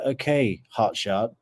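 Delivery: lightly acted unhurried official, reining someone in; mildly mocking, deliberate local drawing out the instructions; sleepy small-town locals. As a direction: put a hotshot in their place, step by step. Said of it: "all sleepy Tallahassee people are just like".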